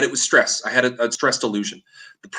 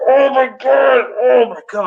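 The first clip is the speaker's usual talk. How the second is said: high, loud shocked cry; panicked shout; 12 semitones higher, 5 dB louder than usual. Retold or imitated. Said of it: "and I'm like".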